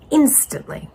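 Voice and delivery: breathy whispered word; whispered for emphasis. Acted. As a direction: drop to a whisper on it.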